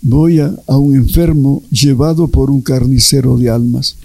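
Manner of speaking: a touch of sorrow in Jesus's answer; mildly sad Jesus. Retold or imitated. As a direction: say it with understated sadness. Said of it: "todo triste".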